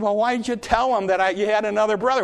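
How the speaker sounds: acted complaint of a put-out father; mild reproach. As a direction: demand an explanation, lightly acted. Father reproaches his sons.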